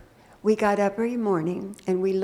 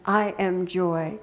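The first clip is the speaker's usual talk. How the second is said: calm affirmation; 2 semitones lower, slower than usual. Shown as a demonstration. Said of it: "with that tone of looking in the mirror".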